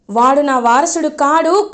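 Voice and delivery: slow and loud, కాడు rising at the end; said loudly. Acted. Grandmother loudly denying the boy is her heir, slow and insistent. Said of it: "గట్టిగా అంటుంది".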